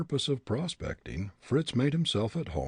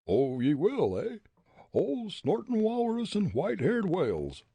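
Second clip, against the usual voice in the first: roared bully; 10 semitones higher than usual. A narrator's reading. Bully Jake to Fritz, mock roar. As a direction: roar the oath before lunging. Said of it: "roared the bully".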